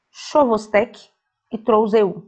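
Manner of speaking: "Chovostek" as sho-vos-TEK-ee, "Trousseau" as tro-zeh-oo; own pronunciation. Shown as a demonstration. Teacher showing how they say it, home-made "Chovostek" and "Trousseau". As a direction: sound out "Chovostek" and "Trousseau" syllable by syllable. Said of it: "É como eu falo".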